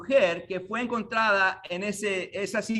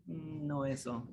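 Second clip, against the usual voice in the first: soft divine no; 4 semitones lower, 12 dB quieter, slower than usual. Acted. God answers no.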